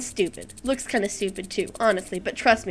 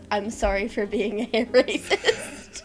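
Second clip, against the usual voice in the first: laughing; slower than usual. Real, not acted. Laughs while quoting Shane's video.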